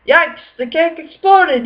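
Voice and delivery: startled yelp at the exploded cake. A narrator's reading. Father sees the exploded cake, surprised yelp. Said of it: "yelped Froggy's father".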